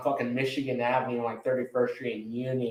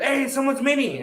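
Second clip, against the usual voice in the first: imitating partygoer; 11 semitones higher than usual. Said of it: "And then somebody goes".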